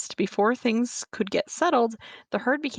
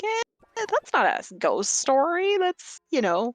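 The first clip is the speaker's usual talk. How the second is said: mock dismissive; 7 semitones higher than usual. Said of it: "and I'm like".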